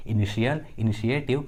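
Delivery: "इनिशियल, इनिशिएटिव" with sh in the middle; sh sound for T. Shown as a demonstration. Teacher showing T as sh in "इनिशियल, इनिशिएटिव". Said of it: "टी का आवाज़ श आ रहा है".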